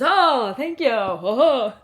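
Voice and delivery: high, loud, beaming theme-park character gush; cheery Gaston thanks. Retold or imitated. Gaston actor thanks director in character.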